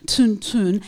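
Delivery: "Tun, tun" with the tongue up for the N; short N drill; syllable drill. Shown as a demonstration. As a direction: tap out "tun" twice. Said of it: "tongue will go to the roof of the mouth".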